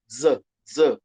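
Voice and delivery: Z said as a bare buzzing z; plain z sound. Shown as a demonstration. Teacher demonstrating the simplified Greek z. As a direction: hold a simple z. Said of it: "outros vão universalizar Z".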